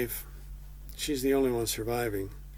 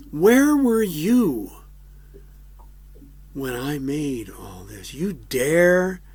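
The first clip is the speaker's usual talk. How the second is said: loud, higher thundering rebuke with slow stretched words; God rebuking; 6 semitones higher, 4 dB louder than usual. Retold or imitated. God rebuking complaining Job, loud indignant thunder. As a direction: tower over him with indignant outrage. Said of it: "God interrupts him and says".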